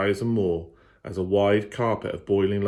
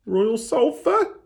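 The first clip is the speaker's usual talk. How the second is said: put-on much higher, slow breathless girl; gasped question; 4 dB louder, slower than usual. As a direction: barely dare to ask. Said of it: "she gasped".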